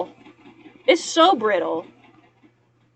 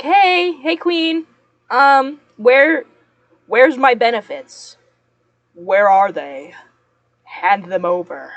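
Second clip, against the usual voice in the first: mock-sweet, louder call to the VA, then a pushy ask; passive-aggressive demand; 5 dB louder, slower than usual. Imagined voicemail to the VA demanding benefits, mock passive-aggressive. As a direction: pretend to sweet-talk the VA clerk into paying up. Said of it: "passive-aggressive voicemails".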